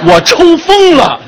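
high, loud laughing protest; laughing outburst. Pretend. 自嘲抽风. (又笑又嚷)

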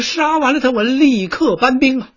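high heated retort; defiant general. Acted. General fires back at his advisor, high and heated. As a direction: fire back in anger.

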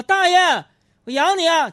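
high, loud, hammed-up love vow; mock movie line. Man quoting a movie vow to an old man, hammed-up high and loud. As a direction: belt the famous line like a lovesick hero. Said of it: "结果".

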